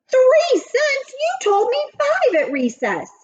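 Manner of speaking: high, loud outraged protest; shocked and furious at the lowball offer. Acted. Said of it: "Leslie was furious".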